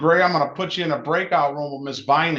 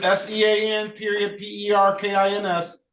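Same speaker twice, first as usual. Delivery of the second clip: dictating; 4 semitones higher than usual. Shown as a demonstration. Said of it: "can you say it again".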